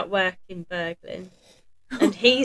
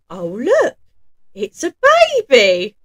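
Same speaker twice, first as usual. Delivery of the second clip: rough, louder burglar exclaiming; Burglar Bill voice; 6 semitones higher, 11 dB louder than usual. Acted. Burglar opens the box and finds a baby, rough and loud. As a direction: play the gruff burglar finding a baby. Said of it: "you have to say it in that voice because he's Burglar Bill".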